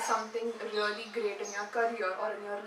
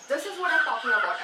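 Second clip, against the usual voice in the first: louder, quick, emphatic burst; brisk, forceful emphasis; sudden stress; 3 semitones higher, 6 dB louder, faster than usual. Shown as a demonstration. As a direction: jolt a dozing listener with stressed words. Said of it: "So when you stress".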